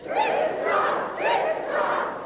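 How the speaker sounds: high, loud little hoofbeats; high little goat trit trot. Shown as a demonstration. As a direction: squeak it out like the tiny goat.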